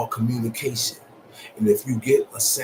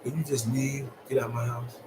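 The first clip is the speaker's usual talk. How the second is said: quiet, softer "Get out my house"; soft request; 6 dB quieter than usual. Retold or imitated. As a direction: ask him to go without raising your voice.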